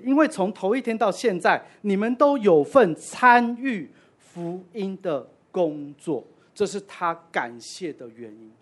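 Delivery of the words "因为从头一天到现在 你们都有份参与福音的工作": louder, explaining paraphrase, slowing at the end; paraphrased verse. Shown as a demonstration. Preacher gives the congregation his own translation, emphatic and explaining. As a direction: say 因为从头一天到现在 as a clear restatement. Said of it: "我们可以这样翻译这一节".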